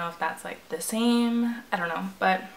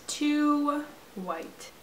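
pitched-up mock echo of too white; mock high voice; 5 semitones higher, 4 dB quieter than usual. Gamer mocking her character's skin tone in a high voice. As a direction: echo it back high and put-on.

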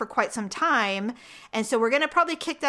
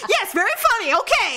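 sarcastic; 10 semitones higher, 5 dB louder than usual. Retold or imitated. Producer's forced fake praise.

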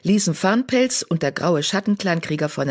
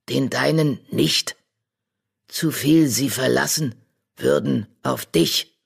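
wise old badger; 2 semitones lower than usual. Old badger silencing Charlie with a stern word. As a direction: speak like an ancient oracle of the stars.

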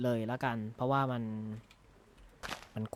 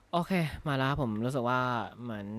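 normal talking voice

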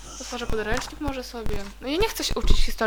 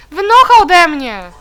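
loud slow yell at the enemy; 7 semitones higher, 13 dB louder, slower than usual. Real, not acted. Yelling at villain in game.

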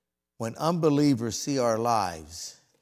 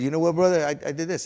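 higher, louder frustrated retelling; retold exasperation; 6 semitones higher, 7 dB louder, faster than usual. Trainee retelling his outburst at his teacher, exasperated. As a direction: act out fed-up protest. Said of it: "And I was mad".

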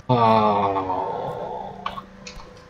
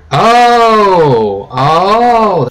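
surprised oh; 9 semitones higher, 10 dB louder than usual. Real, not acted. Sudden surprise while playing.

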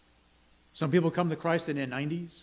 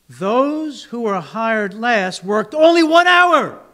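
grumbling workers; 5 semitones higher, 7 dB louder than usual. Acted. Workers complain to the landowner, loud and aggrieved. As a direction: protest to the boss that it isn't fair.

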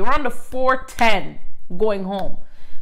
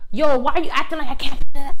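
higher, louder, fast mock-angry retort; imitating an angry client; 5 semitones higher, 5 dB louder, faster than usual. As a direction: fire it back like an offended sister. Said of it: "she's getting mad".

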